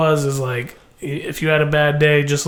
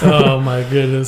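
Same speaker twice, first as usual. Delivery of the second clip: whispering. Real, not acted. Whispered reaction mid-bit.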